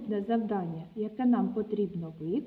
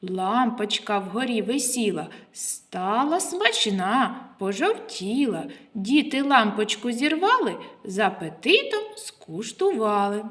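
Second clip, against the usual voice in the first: riddle recital. Acted. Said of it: "Слухайте уважно".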